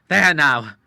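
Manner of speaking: loud and proud; triumphant. A narrator's reading. The Admiral after the run, crying out in triumph. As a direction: crow over the win. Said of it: "cried the Admiral in triumph".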